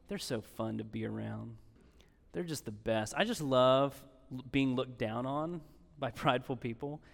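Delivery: deadpan mock praise, low and understated; dry, tongue-in-cheek sarcasm; sarcastic. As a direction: say it softly as if you meant it, dryly sarcastic. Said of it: "I'm being sarcastic".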